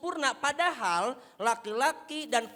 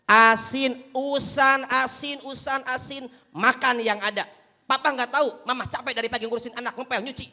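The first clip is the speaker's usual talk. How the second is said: loud, fast quarrel; shouting match; 4 semitones higher, 7 dB louder than usual. Acted. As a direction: shout over each other. Husband-wife shouting match.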